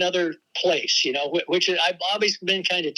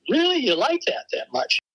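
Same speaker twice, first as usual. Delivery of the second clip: higher, mildly incredulous questioning; retold disbelief; 8 semitones higher than usual. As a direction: replay your surprise at their enthusiasm. Retells his own disbelieving reaction.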